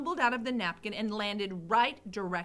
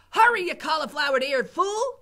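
higher, louder insult; cook shouting; 6 semitones higher, 11 dB louder than usual. Acted. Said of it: "shouted Cook".

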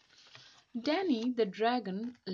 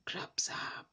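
whispered cry; 3 dB quieter than usual. Acted. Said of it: "cried the chief robber".

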